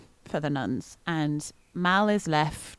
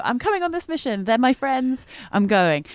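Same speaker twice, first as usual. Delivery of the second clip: put-on higher, eager character voice in Mal's own accent, quick at the start; 7 semitones higher than usual. Player redoing Mal's plea in her proper character accent. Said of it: "that's not the accent I do".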